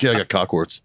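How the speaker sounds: imitating a casual, open admission; retold matter-of-fact confession; nonchalant. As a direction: toss it off as no big deal. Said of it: "all just open and nonchalant about it".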